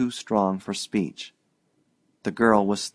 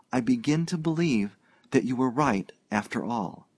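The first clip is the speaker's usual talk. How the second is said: lightly voiced young woman pouring out a confession; eager girl, words tumbling out, slightly higher; bursting out; 3 semitones higher than usual. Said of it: "she broke out".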